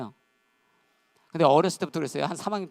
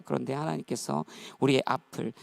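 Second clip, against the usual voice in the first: usual speaking voice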